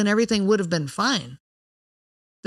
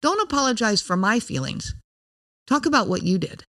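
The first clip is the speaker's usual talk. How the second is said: calm. Shown as a demonstration. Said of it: "just tell them calmly".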